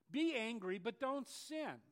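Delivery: weighty preacher's emphasis on "don't"; slow emphatic. Shown as a demonstration. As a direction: spell out "but don't sin" deliberately. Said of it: "it really does the best job".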